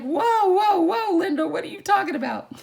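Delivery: loud, high imitation of a baffled friend; hammed-up cry of bewilderment, rushing at the end; mock alarmed protest. Imitates Matt's alarmed reply.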